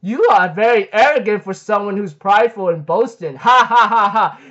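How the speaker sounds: jeering line into a spelt-out fake laugh; taunt, then punch out a staged ha-ha; mock laughing taunt. Galen laughs at boastful Escanor, imitated mocking laugh. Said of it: "Galen laughing at him".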